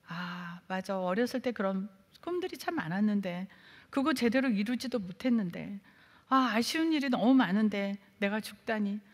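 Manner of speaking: soft, wistful musing over lost dreams; self-pitying lament. Retold or imitated. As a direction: sigh it to yourself, full of regret. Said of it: "자기 연민에 빠져가지고".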